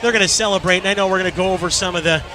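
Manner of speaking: breathless after the big call; catching breath between words. Real, not acted. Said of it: "I'm trying to catch my breath".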